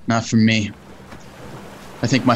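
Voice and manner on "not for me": laughing. Acted. Laughs off the vacation idea.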